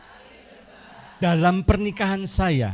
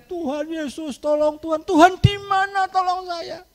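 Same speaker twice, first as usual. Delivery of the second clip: desperate prayer; 10 semitones higher than usual. Acted. Mother crying out in prayer.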